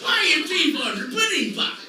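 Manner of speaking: imitating Bill Cosby. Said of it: "Bill like".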